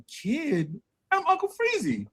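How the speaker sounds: put-on high, offended little boy; mock indignant kid. Boy telling his teacher he's Uncle Freezy, mock indignant. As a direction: squeak it out like an insulted kid. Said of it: "I'm like".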